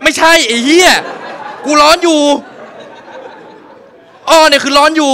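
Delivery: high, loud protest cracking into laughter; burning and furious; laughing outrage. Retold or imitated. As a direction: yell it while laughing. Burning, yelling through laughter.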